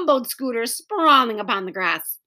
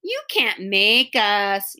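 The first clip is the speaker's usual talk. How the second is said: mild mock yell; slower than usual. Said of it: "yelled Henry".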